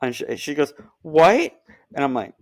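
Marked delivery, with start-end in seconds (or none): 1.0-1.5 higher, louder mock disbelief; mock surprised what. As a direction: imitate her stunned reaction. Girlfriend quoted, surprised.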